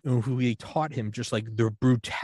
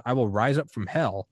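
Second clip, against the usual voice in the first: understated stern German father, usual pitch; mildly retold yelling. German father threatening his son, mildly retold yelling. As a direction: lightly voice a threatening father, without shouting. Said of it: "yelling at his, like, fifteen-year-old son".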